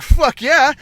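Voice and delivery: loud hyped yell; a pumped-up fuck yeah; excited shout. Retold or imitated. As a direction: cheer it like a stoked soldier. Crew cheering the offer.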